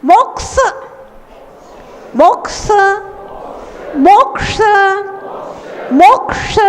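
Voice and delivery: "मोक्ष" with क and ष blended, k-sha; blended consonant demo. Shown as a demonstration. Teacher drilling the mixed sound of the conjunct, careful demo. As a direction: punch "मोक्", then release a long "ष". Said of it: "का मिश्र उच्चारण होना चाहिए".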